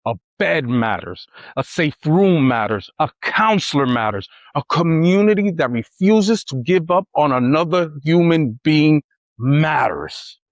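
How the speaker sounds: measured emphatic narration; closing speech. Acted.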